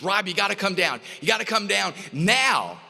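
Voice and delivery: eager, pressing him to come now; excited. Retold or imitated. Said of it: "he was excited".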